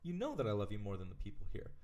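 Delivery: a touch of startled hush, half-whispered; lightly acted surprise; taken aback. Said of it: "kind of taken aback".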